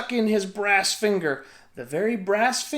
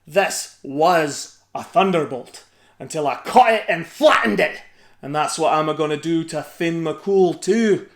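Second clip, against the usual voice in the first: boasting giant; 6 dB louder than usual. A narrator's reading.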